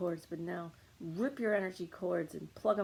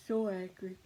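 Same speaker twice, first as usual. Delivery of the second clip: acted anger; 4 dB louder than usual. Models anger with body clenched.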